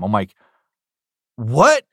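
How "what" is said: loud, high startled what; surprised. Retold or imitated. New voice actor told he'll be a main character, startled. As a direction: react in disbelief. Hearing he gets main role.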